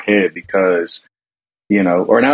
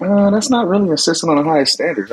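mock critique; 7 semitones higher than usual. Retold work-style verdict on daughter's cookies.

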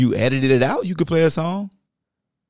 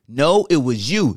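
higher, straining voice; slow, strained higher comeback. Shown as a demonstration. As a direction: lift into the tight, strained voice. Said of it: "the voice is high pitched and sound like it's straining".

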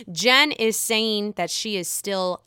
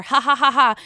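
laughing; 5 dB louder than usual. Real, not acted. Laughing at the drama.

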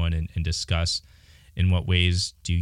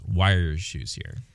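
sarcastic question; 3 semitones lower than usual. Retold or imitated. Partner mimicking her sarcastic shoe complaint, slow and sarcastic. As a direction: drag it out with mock sarcasm. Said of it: "you sarcastically asked".

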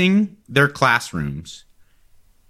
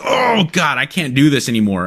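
mock straining groan. Acting out assistant straining to kneel.

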